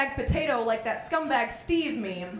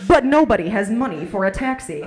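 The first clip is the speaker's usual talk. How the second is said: low, loud trailer narrator; mock-epic voice-over; movie trailer voice; 3 semitones lower, 8 dB louder than usual. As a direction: announce it like a blockbuster trailer, big and deep. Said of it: "your life should be a movie trailer".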